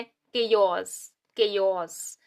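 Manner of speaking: केयोस said as kay-os, repeated with a falling close; correct pronunciation. Shown as a demonstration. Teacher giving students the right reading, kay-os. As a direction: say केयोस as kay-os, twice, settling down. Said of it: "तो ये क्या है?".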